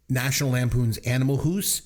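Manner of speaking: "House" as "hoose" in a put-on Canadian accent; hammed-up Canadian vowel on "House"; mock Canadian accent. Listing movie titles to tease critics, mock Canadian accent. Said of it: "it's because of my Canadian accent".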